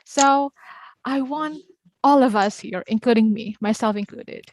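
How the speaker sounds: exaggerated intonation. Real, not acted. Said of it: "I sound very exaggerated tonight".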